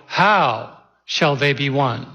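"How shall they be one?" slow and deliberate, leaning on How; shifting emphasis demo. Shown as a demonstration. Pastor showing the congregation how emphasis shifts, slow. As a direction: lay weight on a different word each time. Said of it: "Then you go".

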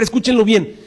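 ordinary talk, nothing marked

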